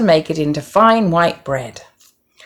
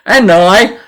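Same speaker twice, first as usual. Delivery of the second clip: squeaky pig; 4 semitones higher, 8 dB louder than usual. A narrator's reading. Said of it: "squeaked the fat little pig".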